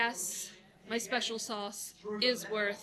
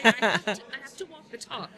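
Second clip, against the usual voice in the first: louder, firm insistence; emphatic; 9 dB louder than usual. Real, not acted. Telling the host she must practise her advice, emphatic and louder. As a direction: land it like a personal vow.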